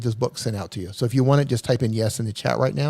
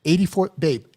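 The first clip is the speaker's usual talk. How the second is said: excited; 6 semitones higher, 4 dB louder than usual. Real, not acted. Marvelling at the donation total.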